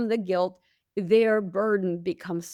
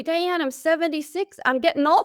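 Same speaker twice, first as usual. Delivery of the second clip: put-on weary old client; 8 semitones higher than usual. Guest imitates elderly client.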